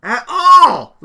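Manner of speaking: reading out a shouted complaint, drawn out slowly; mock outraged reading; mock yell. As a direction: stretch it out like an angry all-caps email. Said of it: "She yelled".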